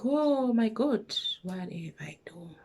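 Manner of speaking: drawn-out high groan dropping to murmur; mock despair, sinking into a whisper; retold dismay. Retold dismay, woken at night.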